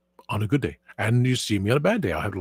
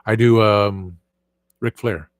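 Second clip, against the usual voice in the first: usual speaking voice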